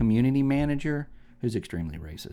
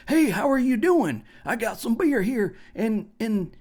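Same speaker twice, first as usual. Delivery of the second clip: mock Canadian attempt at a Southern accent, pitched way up; fake Southern accent; 11 semitones higher, 3 dB louder than usual. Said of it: "it's a Canadian trying to sound Southern".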